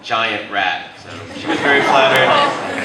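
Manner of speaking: ordinary talk, nothing marked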